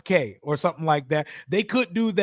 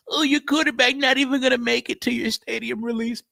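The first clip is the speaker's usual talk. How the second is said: mock taunt; 5 semitones higher than usual. Mocking rival fans' taunts.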